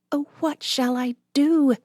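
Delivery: high, desperate cry; cornered and desperate, voice up high; despair. A narrator's reading. Nancy cornered in the barn, despairing. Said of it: "she thought in despair".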